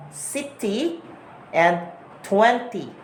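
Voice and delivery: "city" and "twenty" with crisp T sounds; every T in "city" and "twenty" pronounced; British clear T. Shown as a demonstration. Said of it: "that's for British".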